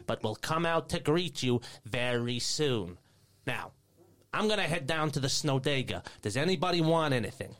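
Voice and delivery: sweet, proper receptionist asking around; elf receptionist. Acted.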